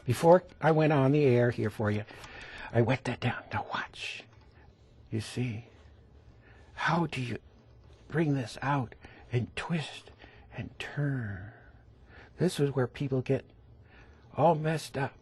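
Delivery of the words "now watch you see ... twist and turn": soft near-whisper while painting; quiet. Real, not acted. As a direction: hush down, draw them in close. Teacher hushes to show stroke.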